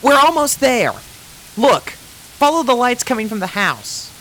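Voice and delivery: high, brash tomboy pony; Rainbow Dash voice. Acted. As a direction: keep the pups moving, bold and bright.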